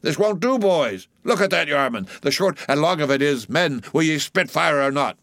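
high-pitched, excited goading of rowers; rousing cry. A narrator's reading. Stubb goads his oarsmen to beat the German, rousing cry. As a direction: harangue the crew, pitch soaring on each urging. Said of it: "cried Stubb to his crew".

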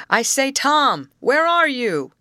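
high, loud call across a distance. A narrator's reading. Rescuer searching the camp for his captive man, calling loudly. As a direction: call out for someone out of sight. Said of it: "he called loudly".

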